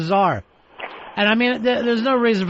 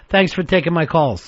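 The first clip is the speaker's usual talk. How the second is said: overly polite caller. Retold or imitated. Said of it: "The overly polite caller".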